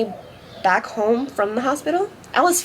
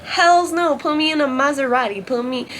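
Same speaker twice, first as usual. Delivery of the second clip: confident; 4 semitones higher than usual. Real, not acted. Answering are you scared.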